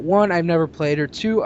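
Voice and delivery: ordinary talk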